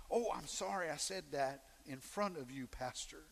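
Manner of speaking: soft, low imitated apology; mock-contrite, hushed and low; sheepish apology. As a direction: shrink the voice, trailing down on the last word. Imitates people apologising to the pastor.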